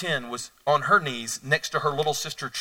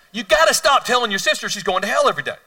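higher, louder stern repeat; firm fatherly scold; 8 semitones higher, 8 dB louder than usual. Retold or imitated. Father repeats his order to his daughter, higher and louder. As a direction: lay down the law to the kid.

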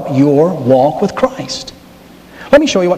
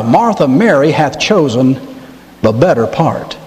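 gentle Jesus; 4 semitones lower than usual. Retold or imitated. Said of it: "he says to Martha".

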